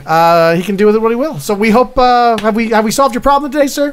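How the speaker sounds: lightly voiced upbeat service agent; a hint of customer-service sing-song; complaints clerk. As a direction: wrap up the call with lifted, cheery politeness.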